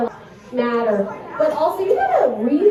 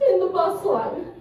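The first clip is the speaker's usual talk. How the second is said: put-on high, tearful child voice; daughter telling on classmate; 7 semitones higher than usual. Daughter tattling to mom about a bossy classmate, imitated high whine. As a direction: imitate a whining little girl. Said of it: "She was like".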